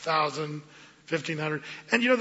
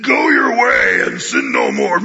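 much louder laughing mock shout; harsh shout; 9 dB louder, slower than usual. A legalist voicing Jesus as harsh, shouting. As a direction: bark it like a condemning judge. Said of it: "Is that how he sounded".

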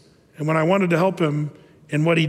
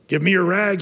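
gently. Acted. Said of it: "he said so gently to her".

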